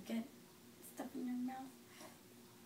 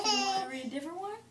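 fast, laughing question; 5 semitones higher, much faster than usual. Real, not acted. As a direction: giggle through the question.

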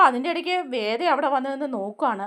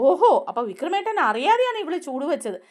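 mocking laugh; 5 semitones higher than usual. Radha mocks Veda.

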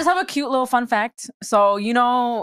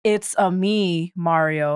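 Mario catchphrase; 4 semitones lower, much slower than usual. Retold or imitated. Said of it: "it is actually not".

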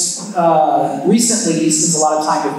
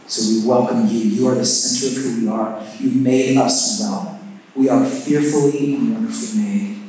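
prayer voice; 4 semitones lower than usual. Acted. Opening prayer.

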